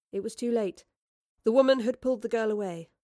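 plain reading voice

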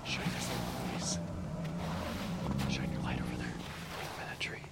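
whispering. Acted. Spotting eyes in woods.

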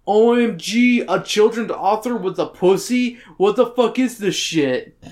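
hammed-up scandalized reaction; mock shock. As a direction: exclaim it in exaggerated disbelief. Reads own note in mock shock.

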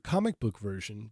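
"comic book version" set apart with stress; emphasis on comic book version. Shown as a demonstration. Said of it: "I'm gonna emphasize the word".

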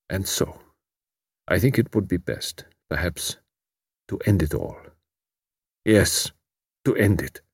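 soft, hollow resignation; quietly. A narrator's reading. Despairing refugee to Tuppence, barely audible. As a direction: let it drop almost to nothing. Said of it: "He added quietly".

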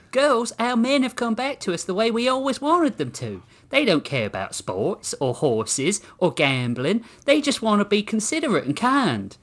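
high-pitched woman rallying the others; devoted woman. A narrator's reading. Samantha telling the girls their men are back, high devoted voice. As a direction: proclaim it in a high, doting voice.

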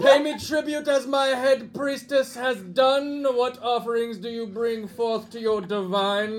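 slow, grand divine voice; Bob the plant god. Acted. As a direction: demand tribute like a pompous god. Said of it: "this voice enters".

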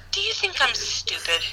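imitating a dad's contained anger; mock-stern father, understated; composed anger. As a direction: hold the fury in, controlled and pointed. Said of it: "he gets himself composed".

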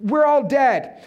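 slow, hammed-up cry of doom; mildly acted despair; mock panicked cry. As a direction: imitate a panicking disciple, drawing it out. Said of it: "screaming at the top of their lungs".

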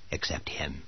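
unvoiced dramatic whisper. A narrator's reading. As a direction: breathe it out as a whisper. Narrator's chilling reveal.

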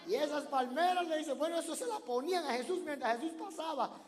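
loud, high, fervent preaching; preaching at full force. Real, not acted. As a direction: drive it over the crowd's laughter. Preacher shouting over the laughter.

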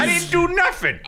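high, desperate squeal of a condemned man; panicked pleading. Pretend. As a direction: beg for your life, shrieking. Acted condemned prisoner pleading.

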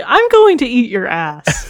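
"I'm going to eat your ass." slow, leaning on going; slow deliberate. Shown as a demonstration. Player tests inflections, slow and deliberate. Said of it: "change the inflection".

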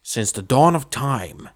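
slow, ponderous priest intoning a sermon; droning priest. Retold or imitated. Priest going on and on at the wedding, droning. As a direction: draw it out like a long-winded priest. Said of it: "the priest kinda goes on and on".

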